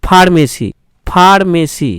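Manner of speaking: "ফার্মেসি" begun with a full aspirated ph; "ফার্মেসি" with lips closed for a complete ph. Shown as a demonstration. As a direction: teach "ফার্মেসি" with Bengali ফ, not English f. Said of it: "ফটা কিন্তু সম্পূর্ণ উচ্চারণ হচ্ছে".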